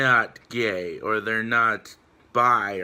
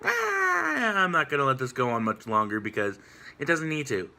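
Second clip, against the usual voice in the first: mocking critics; 7 semitones higher than usual. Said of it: "people are sitting here like".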